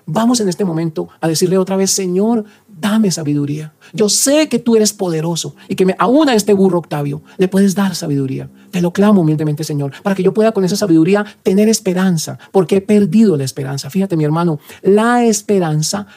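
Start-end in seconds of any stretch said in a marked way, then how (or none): 1.9-13.9 spoken prayer. Acted. Priest leads a spoken prayer.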